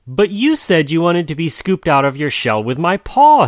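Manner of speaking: protest, all muddled; jaguar voice. Acted.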